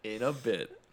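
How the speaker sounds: mock formal broadcast farewell, laughing; formal sign-off. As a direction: sign off like a show host. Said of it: "What do you mean, bye-bye for now?".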